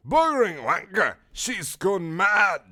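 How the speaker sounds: high, loud outburst of alarm; crying out. Acted. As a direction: yelp it in a put-on panicked voice. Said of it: "Wheatley cried".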